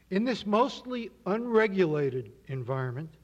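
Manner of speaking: unregulated given extra weight and a pitch peak; stress on unregulated. Shown as a demonstration. Lecturer to audience, stressing unregulated. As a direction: lean hard on unregulated. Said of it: "I emphasize the word unregulated".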